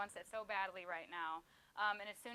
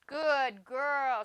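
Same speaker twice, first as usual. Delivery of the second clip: high, much louder praise for the dog; excited praise; 4 semitones higher, 14 dB louder than usual. Real, not acted. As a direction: reward her with a happy cheer. Praising dog after success.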